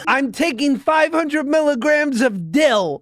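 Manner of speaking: joking while cracking up; laughing. Acted. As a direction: giggle through the joke.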